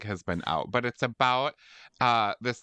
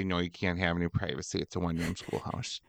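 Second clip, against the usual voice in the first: mock cashier; 4 semitones lower, 4 dB quieter, faster than usual. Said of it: "And they say".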